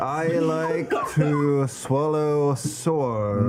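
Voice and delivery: lightly voiced teasing impression of a fellow player; imitating a castmate. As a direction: draw it out like your friend. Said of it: "No, I never said that".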